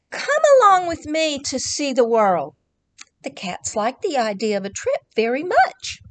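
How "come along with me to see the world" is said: rooster voice. Acted. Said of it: "The rooster said to them".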